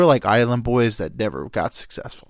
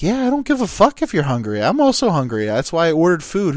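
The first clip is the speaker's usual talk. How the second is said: loud, raised-pitch retold rant; mock angry yelling; 5 semitones higher, 5 dB louder than usual. Buddy defending his food from a stranger, acted angry yell. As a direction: act out an irate buddy telling her off. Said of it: "so mad that he got ye-, they yelled it".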